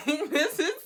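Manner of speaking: very high, loud, drawn-out sing-song; mock indignant outburst. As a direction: wail it in exaggerated protest, stretching the last word. Mock outburst at the absent man.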